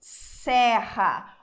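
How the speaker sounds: Encerra very slowly, closed first e and open second e; slow vowel demo. Shown as a demonstration. Teacher contrasting vowels for students, very slow. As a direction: stretch Encerra to show both e sounds. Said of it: "O primeiro E é fechado".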